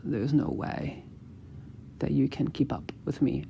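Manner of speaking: soft, playful challenge; teasing line. Shown as a demonstration. Coach demonstrating a teasing line, soft and playful. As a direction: tease her quietly, unimpressed. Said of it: "I'll say that one more time".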